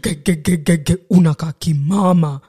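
stammered build-up into a teasing verdict; imitated sibling mockery; teasing brother. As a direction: mimic a brother stuttering, then blurting it out. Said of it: "I remember him saying".

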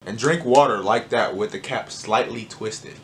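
slowed down, showing how he drank; walk through it slowly, step by step; slow demonstration. Shown as a demonstration. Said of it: "let me stop before I do it again".

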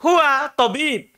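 slow, carefully articulated "Huwa tabib"; slow model reading; demonstrating Huwa tabib slowly. Shown as a demonstration.

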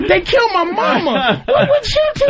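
rising to a high whine; mock whiny Jason. Jason begging for sympathy, rising to a high whine. Voicing Jason again, higher.

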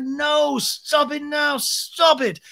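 high, hammed-up scolding; mock panicked telling-off; Lisa. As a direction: plead in a high, loud put-on voice. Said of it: "Lisa's like".

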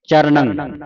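ਚਰਣੰ with curled-tongue ṇ and nasal ending; retroflex n. Shown as a demonstration. Teacher models for student to repeat, ਚਰਣੰ with retroflex ṇ. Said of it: "ਨਾਣੇ ਦੀ ਆਵਾਜ਼ ਉਚਾਰਨ ਕਰਨੀ ਹੈ".

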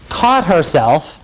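"caught herself" slowly repeated; drawn-out emphasis. Retold or imitated. Lawyer repeating testimony for jury, "caught herself" slow and deliberate. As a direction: linger on each word of "caught herself".

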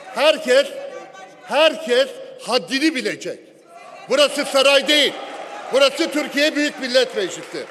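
shouting in anger at the chamber; angry shout. Real, not acted. Angry outburst in parliament. (öfkeyle bağırarak)

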